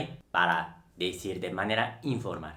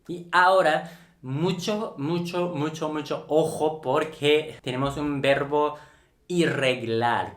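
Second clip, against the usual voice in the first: high, insistent build-up on "mucho, mucho"; emphatic warning; 4 semitones higher than usual. Real, not acted. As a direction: sound the alarm for the students. Teacher warns students about irregular verb.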